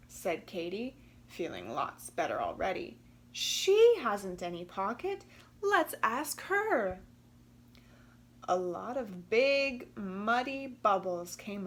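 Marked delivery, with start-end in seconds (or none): 3.3-7.0 Katy's voice. Acted. Katy speaks in the story.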